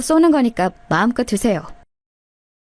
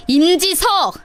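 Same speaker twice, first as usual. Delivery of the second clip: sharp call; 6 semitones higher, much slower than usual. Acted. Narrator calls out brother-in-law.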